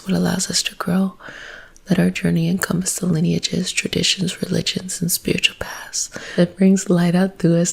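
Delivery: soft whispered spiritual invocation; whispered prayer. Acted.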